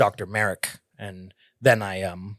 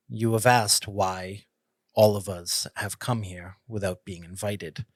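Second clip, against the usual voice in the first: humble and respectful; 5 dB quieter than usual. Acted. Avery humbly addresses the council, soft and respectful. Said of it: "Avery's entire attitude in this situation is different".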